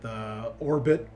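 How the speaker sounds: measured tabletop narration with dramatic pauses; game master's scene setting. Acted. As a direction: unfold the drop for the players, phrase by phrase.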